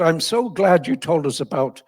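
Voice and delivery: lightly imitated Irish interviewer; a touch of Irish TV host; Irish accent. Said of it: "he's an Irishman".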